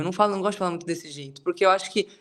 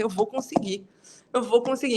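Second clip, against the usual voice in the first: retold defiant resolve, slightly raised; angry determination; 4 semitones higher than usual. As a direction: insist with a touch of anger. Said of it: "me deixava com uma raiva".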